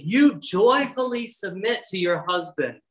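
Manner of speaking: "joyfully" stressed within the phrase. Real, not acted. Preacher urging mothers to submit gladly, stress on "joyfully". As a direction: lean firmly on the word "joyfully". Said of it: "I emphasize that word joyfully".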